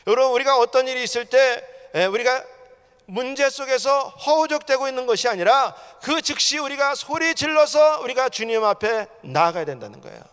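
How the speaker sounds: high-pitched, insistent sermon delivery; forceful preaching. Real, not acted. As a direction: drive each warning home to the congregation. (힘주어 외치는 설교조)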